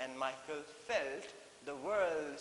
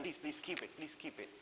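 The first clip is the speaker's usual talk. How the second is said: loving plea; 6 dB quieter than usual. Shown as a demonstration. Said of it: "with so much love and concern".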